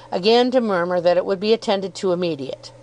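usual speaking voice

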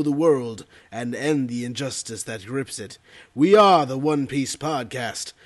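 deep, dramatic trailer narration; big epic movie-trailer read. Shown as a demonstration.

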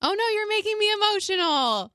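choked up, fighting back tears; crying. Real, not acted. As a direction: voice breaking into tears, high-pitched. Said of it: "Are you crying?".

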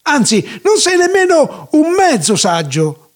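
high-pitched theatrical cry; indignant storybook yell; shouted put-down. Acted. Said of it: "gridò Treitel sciocco".

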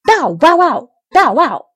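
loud, high dog barks in words; watchdog barking. A narrator's reading. Puppet barks to rouse the farmer, barking loudly. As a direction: bark out the words like an alert watchdog. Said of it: "barked as if he were a real watchdog".

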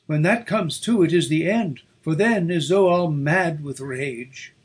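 loud, high, panicked warning; frightened loud. A narrator's reading. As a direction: cry out in fear. Terrified woman in storm.

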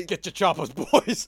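put-on loud rallying call to the boys; mock orc rallying cry. Orc boss rallying his boys, hammed-up loud call. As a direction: rouse the warband like an orc boss.

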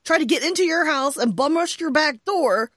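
high and loud, piling up disbelief; incredulous recap. Retold or imitated. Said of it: "I'm like".

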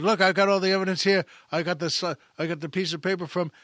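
an angry juror waving his evidence at the room, fast and heated. Retold or imitated. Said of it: "Cobb gets madder and madder".

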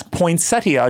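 "poinsettia" starting "poin", not "point"; correct pronunciation. Shown as a demonstration. Correcting host on the plant's name, "poinsettia" without "point". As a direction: keep "poinsettia" free of a T before the S. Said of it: "but there's no point".

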